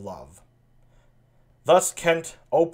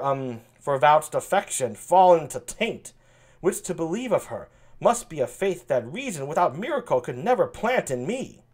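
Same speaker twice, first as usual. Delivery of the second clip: soft-spoken yet confident. Acted. France questioning the king about Cordelia, soft-spoken yet confident. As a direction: speak gently but with certainty. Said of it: "a soft-spoken, uh, yet confident voice".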